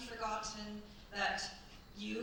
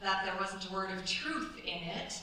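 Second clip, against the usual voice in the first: knowing laugh; 6 dB louder than usual. Acted. Amused knowing reply to Marie.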